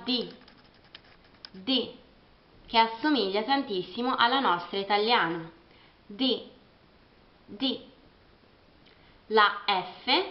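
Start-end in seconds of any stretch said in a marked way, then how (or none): 1.5-7.8 D said as dee; English D. Shown as a demonstration. Teacher drilling English D. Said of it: "La terza consonante".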